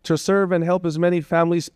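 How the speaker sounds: high voice, pushing on through real emotion; rally yourself while overcome, pitched high; emotional. Real, not acted. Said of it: "I'm very emotional".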